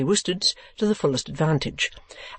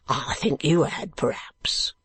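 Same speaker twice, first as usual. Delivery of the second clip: gruff voice; slower than usual. Acted. Man on other side urging old gentleman down, gruff. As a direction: agree gruffly, taking it slowly. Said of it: "answered the gruff voice".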